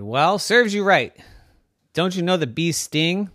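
a cheeky little bee scolding. Acted. Bee lecturing the cat, lightly voiced smug bee. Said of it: "And the bee said".

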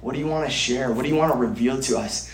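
softly asking God in prayer; a quiet, intimate question to God; hushed prayer. Retold or imitated. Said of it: "I was just asking God".

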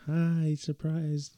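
spring the surprise sweetly; mock sweet surprise. Mother-in-law surprising wife.

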